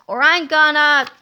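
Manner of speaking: loud, commanding warning; heroic shout. Acted. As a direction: yell it at the giant villain. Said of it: "shouted Captain Underpants".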